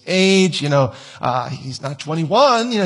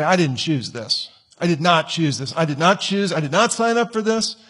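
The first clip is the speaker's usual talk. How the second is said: sulky complaint. Retold or imitated. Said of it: "stomp their feet and just say".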